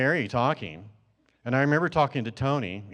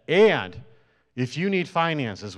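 authoritative voice; 3 dB louder, slower than usual. Retold or imitated. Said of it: "in a real strong, authoritative voice".

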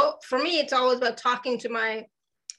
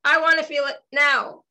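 louder, higher impatient demand; 4 semitones higher, 5 dB louder than usual. Acted. Voicing own impatient mind, impatient. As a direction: want it now, insistently. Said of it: "are sometimes impatient".

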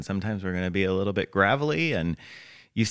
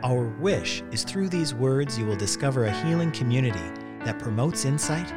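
scripted podcast intro; 4 semitones higher than usual. Acted. Host invites listeners into a healing conversation, scripted intro read. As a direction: read the show's opening invitation with deliberate pauses.

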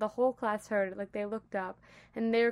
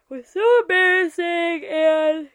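laughing; 7 semitones higher, 14 dB louder than usual. Real, not acted. Laughing about embarrassing moment.

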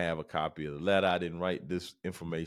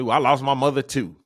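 louder, higher, quick comeback; mock indignant retort; 5 semitones higher, 10 dB louder, faster than usual. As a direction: imitate an agent firing back loud and fast. Acted retort of the agent.

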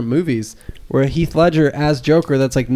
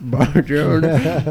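put-on slow, drawn-out Southern-accented Italian; mock a bad Italian attempt with a Southern drawl; Italian greeting mangled in a Southern accent; Brad Pitt; much slower than usual. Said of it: "he's trying to say stuff in Italian".

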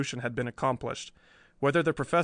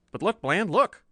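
much higher, louder alarmed plea; frightened urging; 7 semitones higher, 4 dB louder than usual. Acted. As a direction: tug at his sleeve in fright. Scared Riley points at cage.

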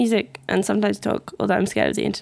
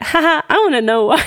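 laughing; 5 semitones higher, 3 dB louder than usual. Real, not acted. Reading own funny text aloud.

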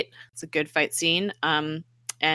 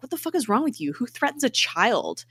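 high-pitched retold indignation; acted-out scandalized question; indignant outrage; 7 semitones higher than usual. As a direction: protest in appalled disbelief, not shouted.

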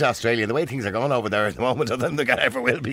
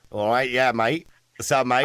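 half-hearted Aussie mate-talk; casual mock-Australian; Australian accent; slower than usual. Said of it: "put on Australian accents".

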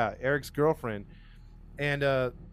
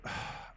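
soft acted sigh of frustration; exasperated sigh; 11 dB quieter than usual. Detective losing patience with suspect, exasperated sigh. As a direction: let out a quiet weary breath.

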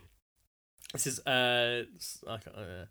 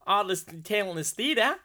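higher put-on Australian voice; attempted Australian accent; 5 semitones higher than usual. Another try at the Melbourne comment, in an Australian accent. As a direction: have a careful go at Australian. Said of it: "your Australian accent's making me laugh".

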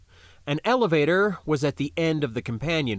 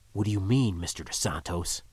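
low wary voice; 5 semitones lower, 4 dB quieter, faster than usual. Acted. Zeke wary questioning.

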